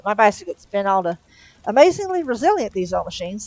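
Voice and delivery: cheerfully showing off the repaired bike; bright. Acted. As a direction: chirp it out brightly like a pleased angel.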